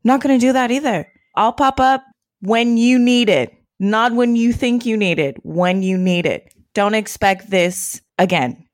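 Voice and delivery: stern sister. Retold or imitated. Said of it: "she said".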